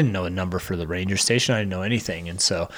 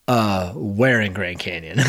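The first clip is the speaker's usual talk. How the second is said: slow, faintly snarky dispatcher voice; a mild hint of a condescending operator; slightly snarky; 3 semitones lower, slower than usual. 911 operator asking where, mildly snarky. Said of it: "not, like, a little snarky".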